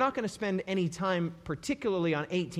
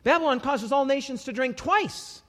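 mock confusion; 6 semitones higher, 4 dB louder than usual. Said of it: "you'd be like".

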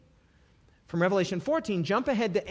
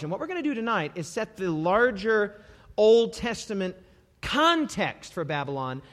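usual speaking voice

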